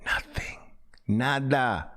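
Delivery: breathy whisper of the word Nothing. Shown as a demonstration. Teacher mocking students' silent trades with a whisper. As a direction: whisper it, empty and flat. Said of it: "sounds like this".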